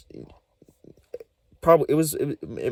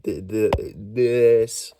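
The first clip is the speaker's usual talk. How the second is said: stutter demo; 3 dB louder, much slower than usual. Shown as a demonstration. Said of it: "Anyone start going like that?".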